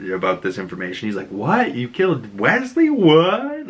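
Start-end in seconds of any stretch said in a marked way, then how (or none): 1.3-3.7 high, incredulous double-take; mock stunned gasp of a question; shocked disbelief. Foggy hears Karen killed Wesley, high shocked disbelief. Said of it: "he's, like, shocked".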